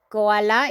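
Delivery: koala with Spanish vowels, ko-a-la; teacher modelling koala; Spanish pronunciation. Shown as a demonstration. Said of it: "Now we have this word".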